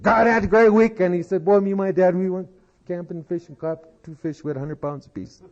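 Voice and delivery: put-on a kid bragging about his weekend; excited boy. Boy gushes to the principal.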